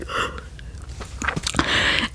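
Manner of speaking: whispered imitation of a frightened gasp; mock scared gasp. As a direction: act out a scared gasp without voice. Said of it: "like, scared for my life".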